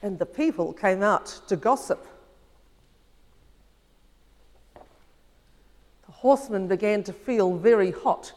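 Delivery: storyteller reading a fable aloud; story narration. Acted. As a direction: read it gently to the children. Heather reads fable to congregation.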